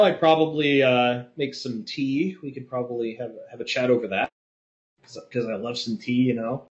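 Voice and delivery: mock posh English accent, lightly done; a bad put-on English gent; shitty English accent. To the chat, a lightly faked English gent. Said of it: "in a really shitty English accent".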